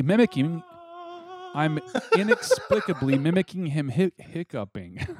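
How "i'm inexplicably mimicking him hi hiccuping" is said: laughing. Real, not acted. Cracks up during tongue twister.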